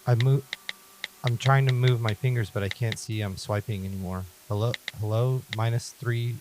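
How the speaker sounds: measured first-person story reading; horror story narration. A narrator's reading. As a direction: narrate it carefully, phrase by phrase. Reads horror story aloud.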